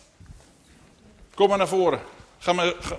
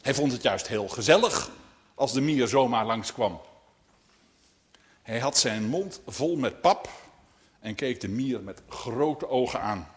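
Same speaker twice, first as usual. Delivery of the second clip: measured storytelling, phrase by phrase; read-aloud tale opening; story narration. A narrator's reading. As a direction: tell it to children with pauses. Reads a story to children.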